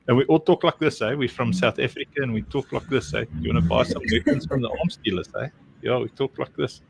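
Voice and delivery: a lightly put-on South African mercenary accent; movie South African accent. Shown as a demonstration. Mocking how movies show South Africans, in a put-on South African accent. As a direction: play the Hollywood South African arms dealer, tongue in cheek. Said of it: "everything I say in Afrikaans sounds like".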